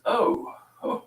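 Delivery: high, airy laughing oh; mock the man's startled laugh; laughing surprise. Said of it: "And he goes".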